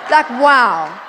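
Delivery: loud laughing wow. Retold or imitated. Preacher marveling at the miracle, laughing wow. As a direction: blurt it out through a laugh.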